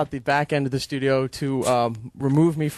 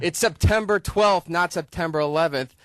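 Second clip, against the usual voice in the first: yelled; 4 semitones higher than usual. Retold or imitated.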